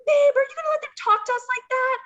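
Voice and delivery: high, loud mock offended wife; hammed-up wife. To her fake husband, high hammed-up offended wife. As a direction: whine at your husband to defend you. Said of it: "we start this argument".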